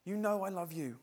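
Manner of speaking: mock-agitated insistence; agitated Peter. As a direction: plead it lightly, as if asked too often. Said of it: "he's getting agitated".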